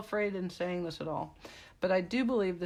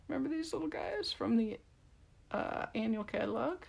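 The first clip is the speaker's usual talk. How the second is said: whispered aside; 3 semitones higher than usual. Real, not acted. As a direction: lean in and whisper it like a secret. Whispered aside about stickers.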